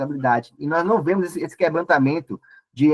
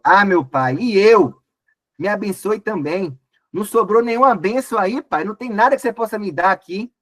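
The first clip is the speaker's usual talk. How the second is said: mild bitter plea; 4 semitones higher than usual. Acted. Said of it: "soltou um forte grito amargurado e suplicou".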